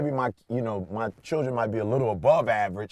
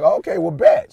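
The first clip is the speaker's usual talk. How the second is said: squeaky high "Okay, well, bet"; dad retelling his reply to his daughter, high and squeaky; high-pitched mock reply; 6 dB louder than usual. Father quoting his own answer, squeaked up high.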